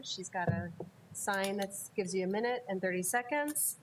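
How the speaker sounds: normal talking voice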